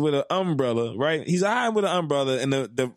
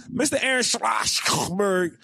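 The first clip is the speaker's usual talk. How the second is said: calling out; 4 semitones higher, slower than usual. Real, not acted. Calling out the lawyer.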